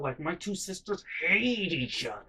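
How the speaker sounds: ordinary talk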